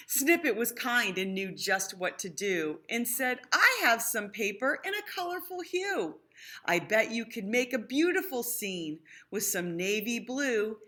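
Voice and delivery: put-on lively read-aloud to children; sing-song rhyming storytelling; storybook reading. A narrator's reading. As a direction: read it like a bedtime picture book. Rhyming picture book read aloud.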